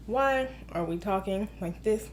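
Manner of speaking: low, soft, stilted robot voice; robot talking. Shown as a demonstration. Movie critic mocking wooden dialogue, robot voice. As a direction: recite it like an emotionless robot. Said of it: "Robot talking".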